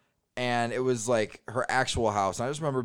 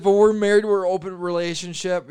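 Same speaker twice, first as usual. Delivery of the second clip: loud, much higher mock of the wife; 7 semitones higher, 8 dB louder than usual. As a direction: blurt it out as the wife. Acting out the wife's explanation.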